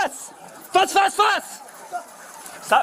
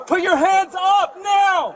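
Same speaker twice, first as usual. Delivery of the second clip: cover me shout; slower than usual. Real, not acted. Police commands armed suspect.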